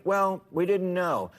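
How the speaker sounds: slow, whiny mimicry of a lame excuse; mock excuse. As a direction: drag out "we didn't know" like a tired dodge. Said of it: "I'm tired of hearing".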